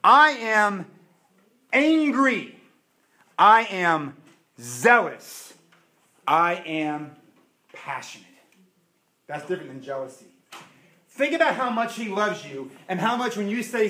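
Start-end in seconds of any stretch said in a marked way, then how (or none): 0.0-8.2 proclaimed loud with long pauses; the Lord announcing himself, pausing between words. Acted. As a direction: declare each "I am" with force, fading on the last. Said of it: "He says".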